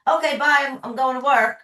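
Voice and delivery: a breezy mock goodbye to the upset partner; breezy dismissive partner. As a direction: brush it off like nothing happened. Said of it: "And they'll say".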